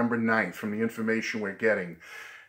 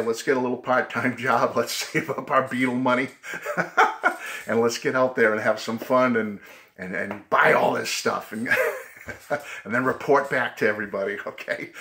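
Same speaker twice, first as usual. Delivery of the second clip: excited. Real, not acted. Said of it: "I know I'm going a little wild here".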